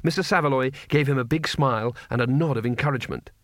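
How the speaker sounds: usual speaking voice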